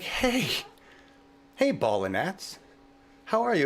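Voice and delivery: high, friendly hello to a swarm of gnats; sweet greeting to bugs. Retold or imitated. Speaker tells how he greets gnats at sunset, sweetly high. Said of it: "talk like that all the time".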